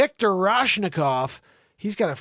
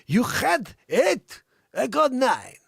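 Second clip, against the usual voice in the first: mock rich guy bragging; 6 semitones higher, 3 dB louder, slower than usual. Mocking oligarch one-upping friend.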